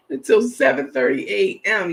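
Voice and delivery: amused reading of a comment; laughing. Real, not acted. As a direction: read through a laugh.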